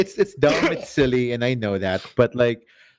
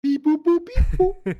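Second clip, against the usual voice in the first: sing-song beep boop robot; 13 semitones higher than usual. Pretend. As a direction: musical robot beeps, higher pitched. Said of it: "Ah, too musical".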